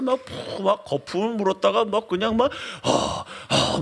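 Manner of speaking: mock sputter, then voiceless panting gasps; imitated possessed frothing. Lecturer mimics a restless principal, mock possessed gasping. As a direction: puff and gasp like someone possessed. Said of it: "귀신 들린 줄 알았어요".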